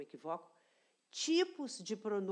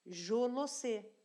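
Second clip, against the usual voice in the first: slow demo; 3 semitones higher, slower than usual. Shown as a demonstration.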